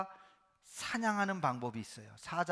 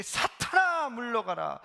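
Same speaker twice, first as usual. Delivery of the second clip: stern rebuke; 7 semitones higher, 6 dB louder, slower than usual. Acted. Jesus rebukes Peter.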